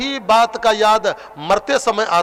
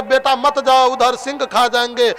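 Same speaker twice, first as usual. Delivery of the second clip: mildly raised, urgent fatherly pleading; anxious pleading; 3 semitones higher than usual. Acted. Bharat calls his straying fawn back, anxious pleading. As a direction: plead lightly, as if calling a child back.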